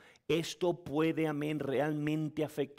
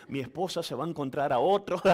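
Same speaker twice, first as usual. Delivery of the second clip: laughing; 5 dB louder, faster than usual. Pretend. Joke about wife remarrying.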